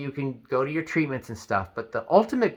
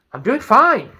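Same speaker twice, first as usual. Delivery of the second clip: irritated reply; 11 semitones higher, 8 dB louder than usual. Retold or imitated. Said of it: "Now you're angry".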